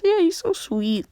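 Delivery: high-pitched gushing; Kurama. Acted. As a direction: lift the voice way up and coo. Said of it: "And he says".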